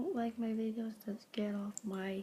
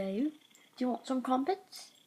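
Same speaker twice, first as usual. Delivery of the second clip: lightly put-on British accent; 3 semitones higher than usual. Offering the cat crumpets, British accent. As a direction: ask it in a playful British accent. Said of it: "British accents I do very well".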